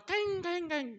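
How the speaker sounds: high yelping kaing; dog yelp imitation. Shown as a demonstration. Preacher imitates a stepped-on dog yelping high. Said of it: "Anjing kepinjak itu".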